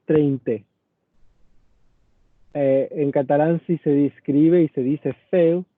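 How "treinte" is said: "treinta" con e final, "treinte"; grafía del documento. Shown as a demonstration. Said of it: "y el documento dice". ("treinta" leído como "treinte")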